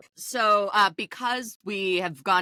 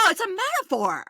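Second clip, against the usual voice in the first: much higher, mocking squeaky defence; mock defensive host; 11 semitones higher than usual. Mimicking the host defending her remark, pitched high. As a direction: pitch it way up, playing dumb. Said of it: "It's like".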